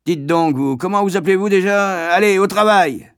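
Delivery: loud, high contemptuous bark; scornful schoolmaster shout; insulting shout. Acted. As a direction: snap at the boy to get to work. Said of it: "le plus insultant de tout".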